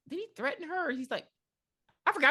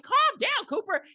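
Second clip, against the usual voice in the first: mock calming; 3 dB louder than usual. Crowd calming him.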